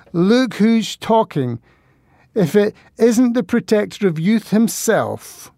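put-on high, slow, sneering drunk woman; mock him with a mean, drunken sneer; hysterical and mean. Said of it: "Her voice sounded hysterical and mean".

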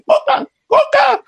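high, slow strangled plea for a coke; choking plea. Retold or imitated. Choking man begs taquero for a coke, strangled. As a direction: squeeze the words out with no air. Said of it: "Y yo le digo".

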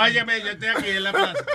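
mock the lost accent through a laugh; imitating slipped character voice. Host mocking the prankster who forgot his character, teasing imitation. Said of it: "porque el primero era así, ahora".

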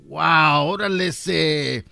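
slow, drawn-out cholo wonder. Acted. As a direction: stretch it out like an impressed cholo. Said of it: "Y el cholo dijo". (cholo asombrado, alargando las palabras)

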